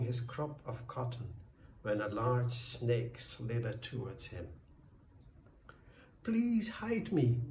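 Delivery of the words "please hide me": high, breathless plea to hide; slow, desperate snake's plea; pleading. A narrator's reading. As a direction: beg urgently in a higher, louder voice. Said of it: "the snake pleaded with the farmer".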